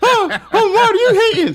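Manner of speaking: squeaking, pitched very high. Speaker mimics how others tease him about hating, in a Mickey Mouse voice. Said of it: "the Mickey Mouse voice".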